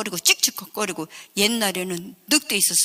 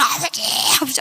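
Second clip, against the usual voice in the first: crying calls; 5 semitones higher, 3 dB louder, faster than usual. Retold or imitated. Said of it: "하고 막 그냥 막 울고".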